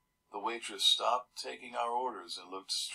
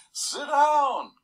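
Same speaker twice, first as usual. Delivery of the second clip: much higher, loud shouted order; firemen yelling; 13 dB louder than usual. Retold or imitated. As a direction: bellow it like a fireman at the kids on the bus. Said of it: "The firemen are yelling".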